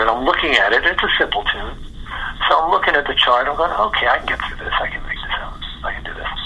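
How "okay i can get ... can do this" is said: muttered self-reassurance. Retold or imitated. Nervous guitarist reassuring himself over the chart, muttered. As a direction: trail off into quiet self-coaching.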